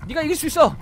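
rooting for an ally mid-battle; cheering. Real, not acted. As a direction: egg your fighter on.

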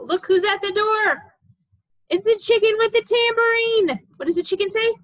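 high, loud excited reveal. Acted. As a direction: gasp in delight for the baby.

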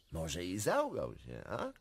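chuckle, then sly doubt; laughing mockery. Prince laughing at himself, sly and amused. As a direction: laugh it off slyly.

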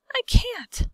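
high, loud plaintive wail. A narrator's reading. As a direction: wail helplessly. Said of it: "wailed the glowworm".

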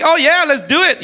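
high, loud eager agreement; eager crowd. Retold or imitated. The people eagerly agreeing to Elijah's contest, excited. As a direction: cheer it on like a gullible crowd. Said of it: "So the people are like".

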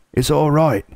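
high, excited shout of relief. A narrator's reading. Beaver shouting to the hidden children, high and joyful. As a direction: call out the good news to the cave. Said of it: "he was shouting".

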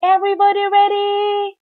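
yelled question to the teams; referee's yell. A narrator's reading. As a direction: call out across the field like a referee. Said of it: "yelled the referee".

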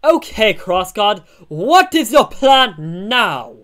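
high, loud character voice; Jabro. Acted. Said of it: "I've changed Jabro's voice".

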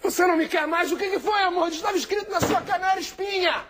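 put-on shrill whining boyfriend; high whiny voice. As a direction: whine it in a high voice. Blind man whining to girlfriend.

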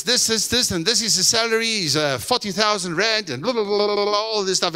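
high-pitched gabbled job offer; job interviewer. Retold or imitated. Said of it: "and the guy says".

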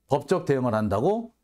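한다고 rising in disbelief; incredulous question. Shown as a demonstration. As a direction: scoff as you ask 법적 대응을 한다고. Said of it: "이걸 보고 헛소리라 그랬다고". (어이없다는 듯 한다고를 올려 묻기)

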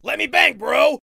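loud bar bro yell. Acted. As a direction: scream it like a drunk fan. Bar guy yells.

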